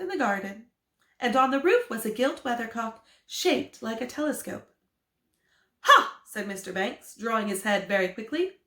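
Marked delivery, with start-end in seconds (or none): 5.8-6.2 sudden, much higher and louder Ha!; a loud knowing Ha! from the reader; triumphant ha. Acted. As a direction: bark out Ha! as if proven right. Mr Banks reacts to weathercock.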